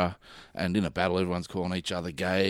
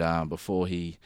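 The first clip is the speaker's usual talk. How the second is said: usual speaking voice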